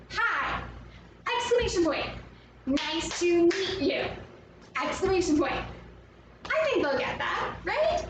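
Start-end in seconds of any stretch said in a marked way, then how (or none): 0.1-4.0 high, excited, beat by beat; exclaimed greeting. Shown as a demonstration. Teacher leads pupils greeting Atlantis, excited exclamations. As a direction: pitch it up and punch each exclamation. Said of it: "we got another exclamation mark".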